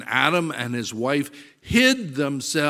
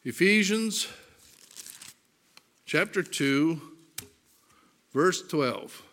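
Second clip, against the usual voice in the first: spaced dictation; 5 semitones higher than usual. Shown as a demonstration. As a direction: call out each piece so they can turn there. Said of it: "reference repeated for the congregation".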